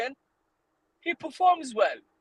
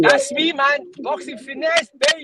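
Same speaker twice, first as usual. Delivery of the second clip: swaggering loud taunts; 2 semitones higher, 5 dB louder than usual. Real, not acted. Revealing his old channel name.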